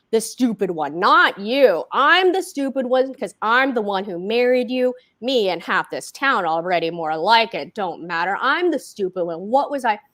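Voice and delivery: loud bitter rant; a husband's bitter rant at his wife. Acted. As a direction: spit out his self-loathing.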